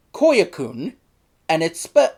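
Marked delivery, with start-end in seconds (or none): 0.1-0.9 Koyakun, ending in -koon; correct spelling. Shown as a demonstration. Reviewer corrects the spelling, ending -koon. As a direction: say Koyakun with a long oo at the end. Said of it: "it's actually spelled".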